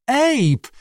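very high plaintive call; moaning. A narrator's reading. Abandoned Lee calls Abe back, moaning. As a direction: moan the name like an abandoned kitten. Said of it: "jęczał opuszczony koteczek".

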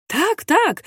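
high dazed echo; Tak, tak pitched high and absent; mechanical repeat. A narrator's reading. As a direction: repeat it blankly, stunned. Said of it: "powtarzał machinalnie biedny chłopak".

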